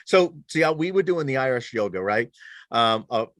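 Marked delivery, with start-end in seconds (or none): 1.3-2.0 "Irish yoga" in the speaker's own accent, for I rest yoga; regional accent on "Irish yoga". Real, not acted. Explaining the yoga class to the co-host, own accent on "Irish yoga". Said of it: "I just said that with my accent".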